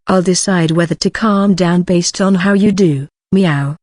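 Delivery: a lightly voiced proud cat, bargaining; haughty cat voice. Cat vice chairman bargaining with Sejun for petting, lightly voiced haughty cat. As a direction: play the smug pet cat setting terms.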